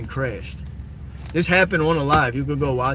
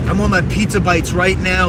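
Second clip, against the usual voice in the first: louder bratty demand; 3 semitones higher, 5 dB louder than usual. Retold or imitated.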